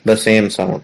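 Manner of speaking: slow, clear classroom dictation. Shown as a demonstration. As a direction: read the heading word by word, very slowly. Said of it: "heading के तौर पर जरूर लिखनी है".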